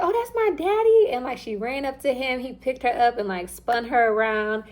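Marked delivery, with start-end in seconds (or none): 0.0-1.1 put-on high, wondering small-child voice; imitating a little girl spotting her father; little daughter. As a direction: ask it like a toddler meeting her dad. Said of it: "She was like".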